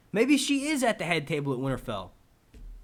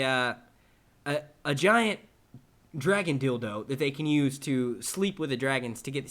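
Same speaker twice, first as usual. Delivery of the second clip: put-on Ozzy Man Australian accent; 4 dB louder than usual. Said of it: "do the accent".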